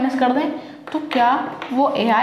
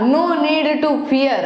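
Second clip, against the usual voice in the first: quoting a comment slowly; 3 semitones higher, much slower than usual. Retold or imitated. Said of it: "एक बार किसी ने comment किया था".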